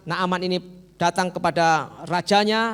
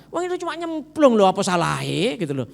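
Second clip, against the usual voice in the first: higher, louder coaxing nudge; coaxing servant; 5 semitones higher, 4 dB louder than usual. Acted. Servant persuading his master to just take the plunge. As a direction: gently talk the master round. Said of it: "pembantu ngomong begini".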